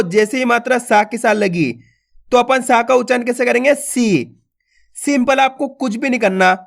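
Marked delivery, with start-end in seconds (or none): 3.8-4.4 सी with the ई stretched long; सी, one long sustained syllable; drawn-out long vowel. Shown as a demonstration. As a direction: hold the ee in सी. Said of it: "खींच खींच के पढ़ना है".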